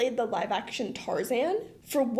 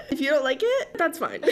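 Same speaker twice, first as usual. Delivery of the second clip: higher, amused Irish accent; playful Irish accent, pitched up; 4 semitones higher, 4 dB louder than usual. Shown as a demonstration. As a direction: brush it off in an Irish lilt. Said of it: "in an Irish accent".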